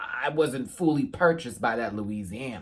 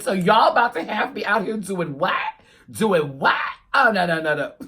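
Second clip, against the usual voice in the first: imitating contestant; 4 semitones higher, 5 dB louder than usual. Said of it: "girl, she said".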